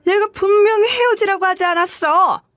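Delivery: high, sharp scolding from the future in-law; angry scolding. Acted. Future mother-in-law scolding her son, angry and high.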